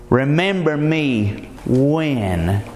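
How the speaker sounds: slow, weighed words with a long hold on "Remember"; read slowly. Shown as a demonstration. Preacher to congregation, reading the verse very slowly. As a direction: draw out "Remember me when" word by word. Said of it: "Read that slowly".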